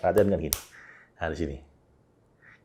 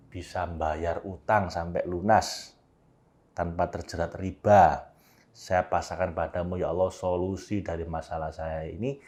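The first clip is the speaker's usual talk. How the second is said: surrendering prayer; 4 semitones lower, 6 dB quieter than usual. Shown as a demonstration. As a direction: let go into God's hands quietly. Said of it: "Dan diakhiri dengan". (doa pasrah yang lirih)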